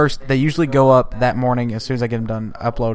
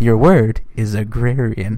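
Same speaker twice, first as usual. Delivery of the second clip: game show host; 4 dB louder, slower than usual. Retold or imitated. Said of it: "Super Password".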